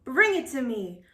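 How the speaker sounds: shouting. Acted. Captain commanding his crew, shouting. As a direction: shout the order. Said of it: "shouted Captain Firebeard".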